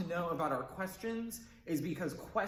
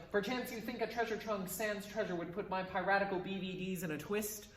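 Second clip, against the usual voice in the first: TWIST lifts upward like a question; question inflection; 3 semitones higher than usual. Shown as a demonstration. Teacher shows the line as a question, rising on TWIST. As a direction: make "in a twist" go up at the end. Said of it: "with that little up inflection at the end".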